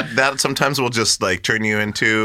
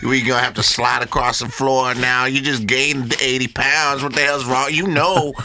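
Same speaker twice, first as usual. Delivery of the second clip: mock self-scolding; 3 semitones higher than usual. Man scolds himself after overeating, higher mock. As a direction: berate yourself with a laugh. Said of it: "It's just like".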